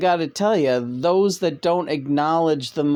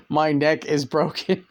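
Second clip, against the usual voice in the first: laughing. Retold or imitated. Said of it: "writes on the Post-it note".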